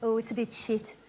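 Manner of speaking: flat-voiced unimpressed locals answering the comic; glum crowd. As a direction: drain all the life out of it. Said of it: "And they all go".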